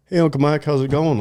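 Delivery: high, bright mock hello; cheery relatives' greeting. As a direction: nephew and niece greet Uncle Mike, high cheerful voice.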